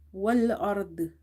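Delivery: Wal ard ending on r and heavy d with no vowel between; both letters sakin. Shown as a demonstration. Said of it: "read both letters sakin with each other".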